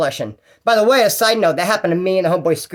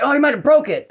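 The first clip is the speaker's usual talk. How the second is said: complaining inmate; 9 semitones higher, 4 dB louder than usual. Retold or imitated. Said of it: "He's like".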